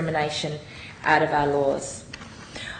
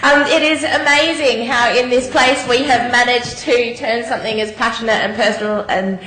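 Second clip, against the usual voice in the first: teary; 5 semitones higher, 4 dB louder than usual. Real, not acted. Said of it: "I got a bit teary".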